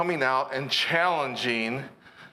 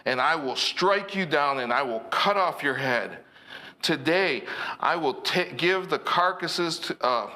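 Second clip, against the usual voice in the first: David's bold declaration; 2 semitones higher than usual. Retold or imitated. Preacher voices David's battle cry.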